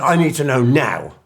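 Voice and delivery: retold loud, pushy demand; aggressive demand. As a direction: bark it like an impatient client. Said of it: "I mean, this aggressive".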